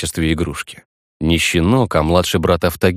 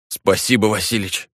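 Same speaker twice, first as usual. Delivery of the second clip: dry throat; 3 semitones higher than usual. A narrator's reading. Hero thanks Vasilich after the beating, dry throat. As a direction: croak it with a parched throat. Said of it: "пересохшим горлом".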